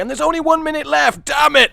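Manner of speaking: high, loud alarmed outburst; exasperated, panicky shout; time-pressure panic. Real, not acted. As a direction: yelp it as the clock runs out. Notices time running out.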